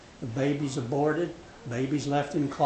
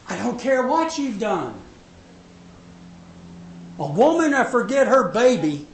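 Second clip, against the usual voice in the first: voice of God; 8 semitones higher, 6 dB louder than usual. Acted. Preacher voicing God's promise.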